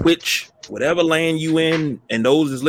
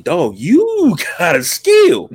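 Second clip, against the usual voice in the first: slow, laughing, impressed compliment; laughing praise; 6 semitones higher, 5 dB louder, much slower than usual. Retold or imitated. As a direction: grin through the praise to a friend. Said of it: "I said".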